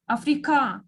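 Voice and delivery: "Africa" with the final syllable stressed; stress on last syllable. Shown as a demonstration. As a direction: land on the end of "Africa". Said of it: "there is three stressed syllables".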